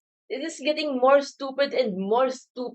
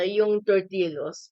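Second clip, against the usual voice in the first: mouth full; 4 semitones lower, slower than usual. Real, not acted. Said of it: "I'm eating the cheese-flavored corn snack right now".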